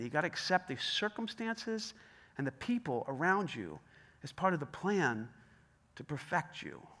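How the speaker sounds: each phrase set apart with pauses, "circumstances" stressed; slow emphatic repeat. Shown as a demonstration. Preacher repeating the point slowly for emphasis. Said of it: "I'm gonna say that again".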